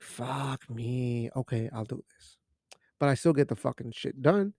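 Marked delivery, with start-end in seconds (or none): 0.0-2.4 grudging compliance. Retold or imitated. Worker taking directions from someone else, quietly resigned. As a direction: give in quietly, almost whispering.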